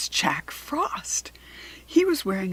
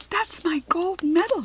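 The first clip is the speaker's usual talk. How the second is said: high, breathless whisper; tiny fairy whispering in shock; fairy's whisper; 10 semitones higher, 3 dB louder than usual. A narrator's reading. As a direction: hiss it under your breath in alarm. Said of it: "she whispered".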